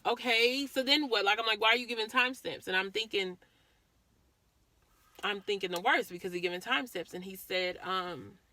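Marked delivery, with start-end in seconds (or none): 0.1-2.7 urgent. Retold or imitated. Retold anxious thoughts.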